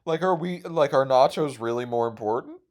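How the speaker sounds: high, heartbroken whine; mock heartbreak over popcorn; emotional. Real, not acted. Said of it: "I didn't mean to get emotional".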